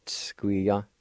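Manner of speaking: Tskuya with a long hissed s; drawn-out s like a snake. Shown as a demonstration. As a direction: drag the s in Tskuya. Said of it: "drag out your S sound together".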